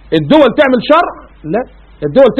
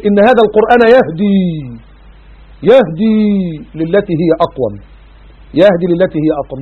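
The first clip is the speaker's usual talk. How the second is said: Quran recitation. Acted.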